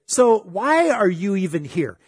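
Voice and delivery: a touch of accusation; accusing. Retold or imitated. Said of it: "it all depends on how you say things".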